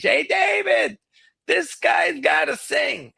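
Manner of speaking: high shouted call across the room; mock shout to the bandleader. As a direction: yell up to the stage. Widow calls to stage.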